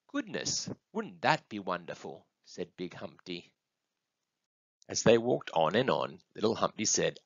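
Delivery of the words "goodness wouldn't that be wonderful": hushed parental delight; indulgent wonder. Acted. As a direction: marvel gently at a child's idea. Parent marvels indulgently at child's idea.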